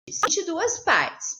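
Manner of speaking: Em duas partes said very slowly, each word stressed; emphatic repeat. Shown as a demonstration. Teacher repeating the task to the class, slowly.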